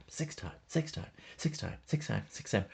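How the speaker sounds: hammed-up Booker T boasting six-time; Booker T brag. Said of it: "And Booker's like".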